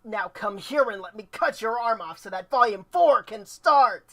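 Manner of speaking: Adam villain voice. Acted. Adam threatening Yang, mock anime villain. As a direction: ham up a bad anime threat. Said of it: "like Cake doing a bad anime voice".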